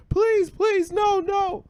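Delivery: very high, loud pleading; mock a little kid begging desperately; high-pitched frantic begging; child begging, imitated. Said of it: "He's begging his dad".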